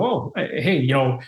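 overly polite, laughing apology; mock Canadian apology. Apologizing to the owner in my own home, mock polite. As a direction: apologize like a typical Canadian, giggling. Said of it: "typical Canadian".

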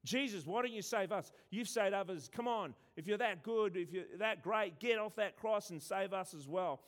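lightly hammed-up jeer from the cross; mocking criminal. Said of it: "one of the criminals also starts to mock Jesus".

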